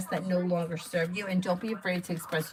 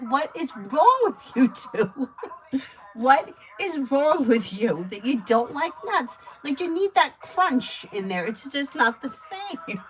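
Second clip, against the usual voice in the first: higher, louder and slow, laughing through it; mock outrage at the nut-haters, giggling; laughing disbelief; 6 semitones higher, 6 dB louder, slower than usual. Reader mocking Avery and her father for hating nuts, laughing. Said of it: "I'm like".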